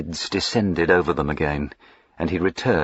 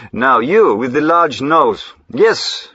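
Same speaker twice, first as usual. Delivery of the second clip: commanding; 7 semitones higher, 5 dB louder, slower than usual. Acted. Ordering a henchman about.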